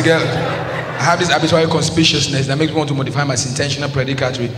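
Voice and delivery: memorised speech started from the top; rote, run-on chat-up line; crammed recitation. Acted. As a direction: reel off big words learned by heart. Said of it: "Now I start all over again".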